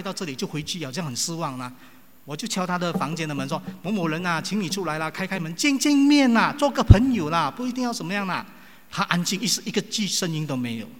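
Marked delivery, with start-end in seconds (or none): 3.8-8.4 calling through a door. Retold or imitated. Preacher pleading through the bedroom door, loud coaxing. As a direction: coax someone out from behind a door.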